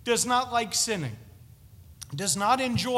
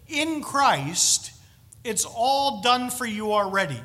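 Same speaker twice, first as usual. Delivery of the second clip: proclaiming God's assurance; 8 dB louder, slower than usual. Retold or imitated. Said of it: "This is God saying".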